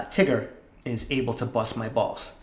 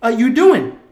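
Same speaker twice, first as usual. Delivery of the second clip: slow, drawn-out, louder and higher disbelief; exasperated yell at the cat; 9 semitones higher, 7 dB louder, much slower than usual. Retold or imitated. Catching the cat at the drawer again, drawn-out exasperated yell. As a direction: stretch every word out at the cat. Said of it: "I look at him and go".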